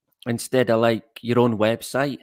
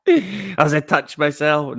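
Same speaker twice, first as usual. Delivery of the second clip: creepy aside; 4 semitones higher, 4 dB louder, slower than usual. Pretend. Odd aside, slow far voice.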